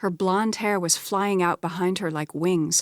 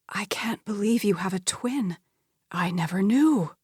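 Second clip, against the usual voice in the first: whispering. Acted. Beverly stunned by twin news.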